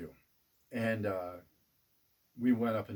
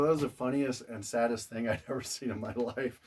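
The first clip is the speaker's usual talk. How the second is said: laughing; 3 semitones higher, 4 dB louder than usual. Retold or imitated. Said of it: "I go".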